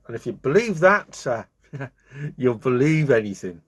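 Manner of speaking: teasing with a laugh. Acted. Zebra teasing the gullible bee, laughing. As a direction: chuckle through the punchline. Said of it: "the zebra laughed".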